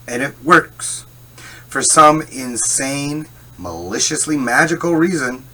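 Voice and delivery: high, loud, slow and drawn out; mock amazement. Real, not acted. Amazed that the apology trick always works, slow and loud. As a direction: marvel at it in disbelief.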